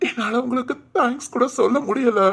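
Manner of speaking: choked-up words of gratitude; a mother choking on gratitude to the dying man; tearful thanks. Acted. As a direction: thank him through tears.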